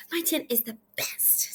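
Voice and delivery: excited. Shown as a demonstration. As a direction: read it with feeling, like an exclamation. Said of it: "she's really excited in this story".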